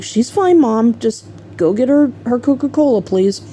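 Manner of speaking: retold pleading cover-up; imitated dismissive reassurance. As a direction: brush mom off, covering up. Son covers up, brushes mom off.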